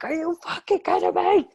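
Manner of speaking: high, loud mock outrage; outraged disbelief. Friend retelling her reaction to the ending, high loud mock outrage. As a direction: yell at the screen in disbelief. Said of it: "I was like".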